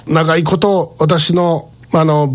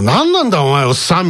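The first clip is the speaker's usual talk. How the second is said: mock-grumpy snap back, a little higher; displeased retort; 4 semitones higher than usual. Woken up, grumbling back at the old man, mock-displeased. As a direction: sound as sulky and rude as you can. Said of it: "最大級不愉快な表情で".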